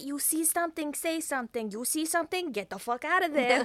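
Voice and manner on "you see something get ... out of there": gruff street-wise punchline; loud, rough New York twist on the slogan; tough New Yorker. Shown as a demonstration. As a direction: punch the last line out loud.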